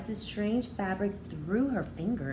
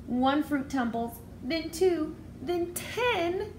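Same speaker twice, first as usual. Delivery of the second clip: building suspense; 9 semitones higher, slower than usual. Acted. Fruit falling, building drama.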